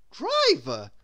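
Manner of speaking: high, loud, slow lofty command; haughty grand lady. Acted. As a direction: dismiss money like royalty. Miss Splendid haughty.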